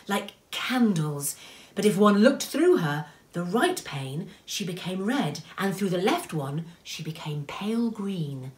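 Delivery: expressive storyteller, lingering on key words; story narration. A narrator's reading. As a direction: paint the icy scene as you read. Reads a story aloud.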